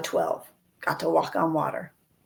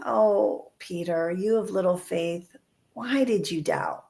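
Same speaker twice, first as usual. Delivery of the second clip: tender; slower than usual. Retold or imitated. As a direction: soften it, reach out to him with the words. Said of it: "that's tenderness".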